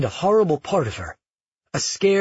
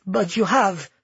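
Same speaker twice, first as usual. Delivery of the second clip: higher-pitched, firm contradiction; insistent; 4 semitones higher, slower than usual. Acted. Grandmother tells granddaughter she is mad, insistent. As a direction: press the point calmly. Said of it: "Neela insisted".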